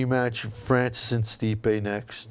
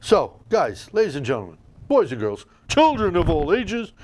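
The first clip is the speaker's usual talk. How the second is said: Road Dogg voice; 2 semitones higher than usual. Retold or imitated. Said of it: "in my road doggy dog voice".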